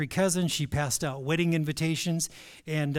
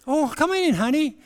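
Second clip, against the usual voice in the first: high, loud sweet mom voice; imitating a sweet mother calling him in; mock sweet mother; 11 semitones higher, 8 dB louder than usual. Parents voiced in the story.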